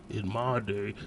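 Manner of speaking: lightly voiced grumpy old man, slow and soft; a hint of an old-timer reminiscing; old fogey voice. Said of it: "I know it sound old fogey".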